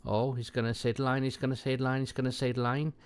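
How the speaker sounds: lightly excited, repeating it eagerly; mock excitement. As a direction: imitate mild, eager anticipation. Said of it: "really excited".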